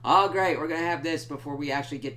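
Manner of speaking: loud, high sarcastic "great"; mock enthusiasm. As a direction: say it with dripping sarcasm. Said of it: "It's like".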